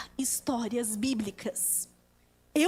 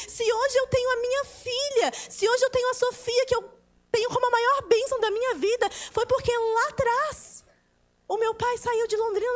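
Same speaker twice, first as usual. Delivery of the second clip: raised, insistent testimony; fervent preaching; 7 semitones higher than usual. Acted. Preacher testifying to God's leading, fervently. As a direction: preach it with rising conviction.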